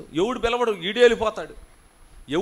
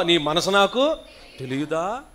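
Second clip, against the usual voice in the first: louder, bolder నీ మనసు నాకు with rising తెలియదా; say it loudly; 6 dB louder, slower than usual. Shown as a demonstration. Pastor urging his daughter to say the line louder. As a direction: speak up clearly this time. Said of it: "కూతురా గట్టిగా చెప్పు".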